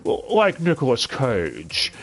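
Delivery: slow, drawn-out celebrity impression; Nicolas Cage impression. Reviewer mocking a dub actor's imitation, slow mock celebrity voice. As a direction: lightly imitate the actor, stretching the name out. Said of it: "who tries talking like".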